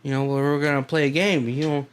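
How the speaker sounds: sly Southern uncle voice; Southern accent. Retold or imitated. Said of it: "I'm doing this in a Southern accent".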